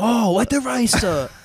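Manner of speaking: high, loud mock Japanese accent; imitated Japanese accent. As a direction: mimic a Japanese woman suddenly understanding. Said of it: "with a Japanese accent".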